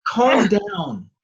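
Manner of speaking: loud, high order; urgent command. Acted. Friend holding back a fighter, loud and urgent. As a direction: shout to break it up.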